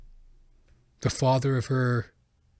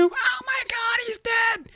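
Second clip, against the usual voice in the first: imitating a panicked mother; slower than usual. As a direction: shriek like a terrified mom over her child. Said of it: "My mom's screaming".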